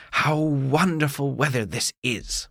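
a happy frog croaking its joy. Acted. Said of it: "one of them said".

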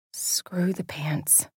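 slow hushed whisper. A narrator's reading. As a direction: whisper it slowly under your breath. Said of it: "I whispered".

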